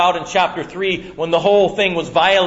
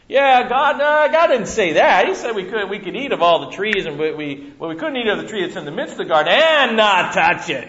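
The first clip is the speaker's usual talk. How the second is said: higher, louder hurried Eve; eager Eve; 4 semitones higher, 4 dB louder than usual. Acted. Eve answering the serpent, eager and slightly flustered. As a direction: rush the answer, half agreeing. Eve voiced, half agreeing.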